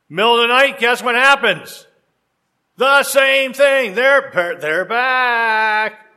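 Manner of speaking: building suspense. Acted. Suspense build in told story.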